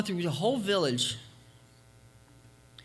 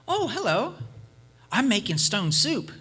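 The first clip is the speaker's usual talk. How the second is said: traveler's voice; 6 semitones higher, 4 dB louder than usual. Acted. Traveler answers little girl.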